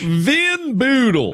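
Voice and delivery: grand mock-German Windbeutel; hammed-up German. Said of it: "our accents are very convincing".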